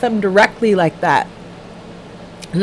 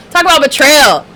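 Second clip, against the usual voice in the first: emphatic repeat; 4 semitones higher, 4 dB louder than usual. Shown as a demonstration. To her stream viewers, repeating the phrase louder for emphasis. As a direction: Talk about betrayal said louder and higher, stressing betrayal.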